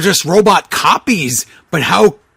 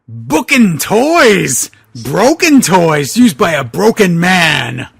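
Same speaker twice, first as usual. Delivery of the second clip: shouted line. Acted. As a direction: hurl it across the room like an accusation. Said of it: "Boogeyman whispered, clearly".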